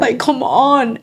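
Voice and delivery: high, slow, pleading cry to God; retold yell at God. Mother on her knees in church crying out to God, high and slow. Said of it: "I yelled at God".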